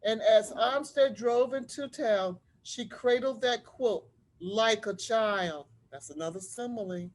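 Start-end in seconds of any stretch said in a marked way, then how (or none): 0.0-5.7 put-on lively read-aloud voice for children; story narration. A narrator's reading. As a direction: tell it like a storybook to a class. Teacher reads picture book aloud.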